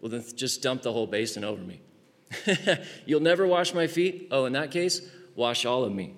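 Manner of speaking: hammed-up eager disciple; over-the-top Peter. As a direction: overeager Peter begging to be washed all over. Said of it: "so what does Peter say?".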